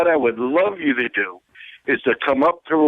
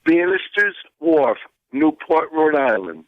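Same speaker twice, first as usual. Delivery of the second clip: slow, deliberate Rhode Island Boston accent; measured Rhode Island Boston accent, place by place. Shown as a demonstration. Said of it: "say it with your Rhode Island Boston accent".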